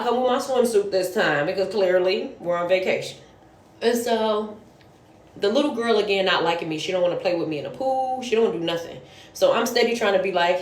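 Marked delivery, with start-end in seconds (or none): none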